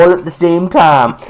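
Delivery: mock Alabama accent; Southern American accent. Host ends the Alabama gag, mock Southern accent. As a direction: keep up the hammed-up Southern twang. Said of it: "like, Texan".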